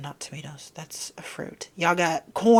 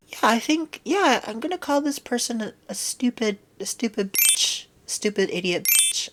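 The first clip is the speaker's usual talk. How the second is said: mock troll; 4 semitones higher than usual. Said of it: "And you're just like".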